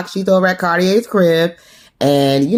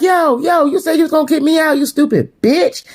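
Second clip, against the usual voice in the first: mock yelling; 11 semitones higher than usual. Sam calling after Burke as she leaves, mock yelling. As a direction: imitate an indignant yell, drawing out the final insult. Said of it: "Sam is yelling like".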